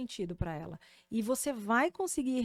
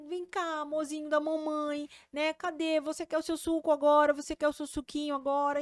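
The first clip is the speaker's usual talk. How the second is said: put-on higher sing-song voice for a baby; thin baby voice; 5 semitones higher, 3 dB louder than usual. Shown as a demonstration. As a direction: talk up high and sweet to a toddler. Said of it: "quando a gente fala de forma fininha".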